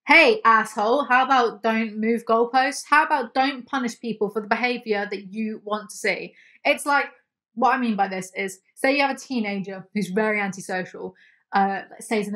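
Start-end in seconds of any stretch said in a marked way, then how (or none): 0.1-6.3 angry callout. Real, not acted. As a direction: shout him down, then press the point. Yelling at Tobias.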